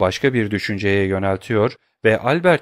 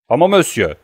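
raised, louder protesting cry; 5 semitones higher, 5 dB louder than usual. A narrator's reading. Banker Danglars protesting Albert's intrusion, crying out. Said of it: "diye haykırdı Danglars".

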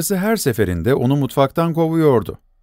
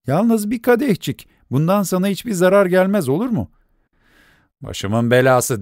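higher, lightly voiced scolding wife; wife's voice; 4 semitones higher than usual. Wife scolding her husband out of the kitchen, lightly voiced. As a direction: shoo him out of the kitchen, a touch impatient.

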